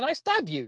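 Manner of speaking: acted-out cheery, friendly, tipsy drunken voice, no menace. Retelling a passerby's question: imitating a cheery drunk man. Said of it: "He asked me in a very cheery, like, drunk manner".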